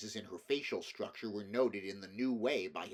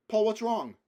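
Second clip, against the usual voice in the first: much higher and louder, urgent; a mother anxious over her son; alarmed question; 12 semitones higher, 11 dB louder than usual. A narrator's reading. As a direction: ask in a frightened rush. Mother rushing to him.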